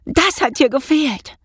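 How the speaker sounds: high, delighted exclamation; gleeful whoop. A narrator's reading. Mouse pleased with his prank, exultant. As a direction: crow it out in a high voice. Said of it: "juchzte er".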